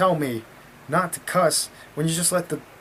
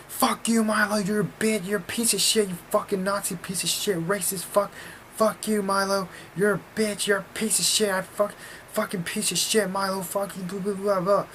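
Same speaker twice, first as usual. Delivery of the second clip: high-pitched rapid-fire insults, imitated; mock ranting protester; 7 semitones higher than usual. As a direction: mimic an angry heckler in a high voice. Imitating a protester's megaphone rant.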